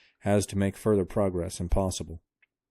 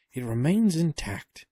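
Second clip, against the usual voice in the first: put-on pitched-up, slow amazed old man; high slow old professor; 8 semitones higher, 4 dB louder, slower than usual. A narrator's reading. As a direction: marvel slowly like an old scholar. Professor marvels.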